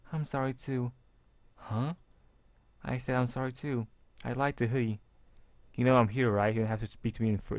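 a hint of a meek, pleading girl; shy girl voice. Voices Mia.

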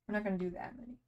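talking while chewing; words round a mouthful of food; wolfing down food. Real, not acted. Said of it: "Apologies for the eating noises".

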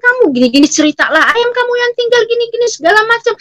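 imitating neighbours' high, fast news-telling; excited chatter. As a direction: rattle off the news, high and eager. (celoteh tetangga yang heboh, tinggi dan cepat)

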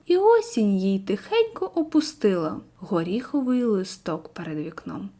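a gentle read-aloud of a sad village verse; poem recitation. Acted. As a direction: read it like a lyric poem to the class.

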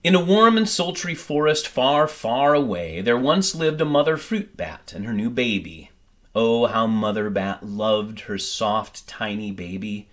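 gentle storybook reading, lively and clear; story narration. A narrator's reading. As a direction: read it like a bedtime picture book. Reads picture book aloud.

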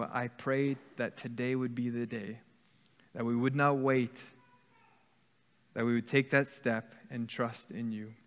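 a lightly voiced, hushed prayer; closing prayer.

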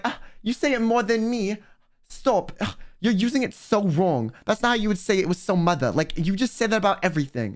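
mock British accent, slightly exaggerated; lightly put-on British accent of a griping friend; bad British accent. Friend griping at being copied, bad British accent. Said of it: "your attempt at a British accent".

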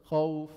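خوف with an easy gliding aw; soft leen. Shown as a demonstration. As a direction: let the waw in خوف glide out without effort. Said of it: "بيخرجوا بسهولة من دون تكلف".

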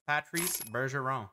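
French-accented player name. Real, not acted. Card opener reading out a True Leaders card, French accent. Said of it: "I said that with an accent".

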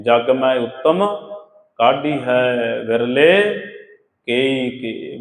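slow measured recitation; scripture recitation. Acted. Preacher reciting the verse to the sangat, slow. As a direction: intone the verse deliberately.

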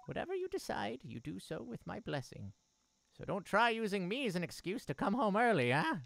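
lightly voiced caring mother. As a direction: speak as a gentle mother.

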